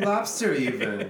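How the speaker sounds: slow, hammed-up Boston "Lobster"; laughing through a try at Boston "Lobster"; trying Boston accent. Shown as a demonstration. Friend tries the Boston accent for the group, slow and laughing. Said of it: "Is that good".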